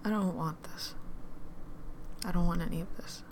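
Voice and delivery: barely voiced, breaking whisper; despairing whisper. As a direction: let it slip out almost silently.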